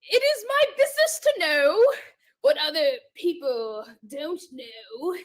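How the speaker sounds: halting, attempted British accent; Sherlock Holmes. Contestant gives clues to her character, attempted British accent. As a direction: deliver detective maxims in shaky-attempt British. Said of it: "Are you Sherlock Holmes?".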